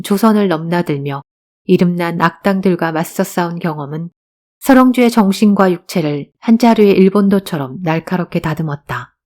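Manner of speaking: ordinary delivery, nothing marked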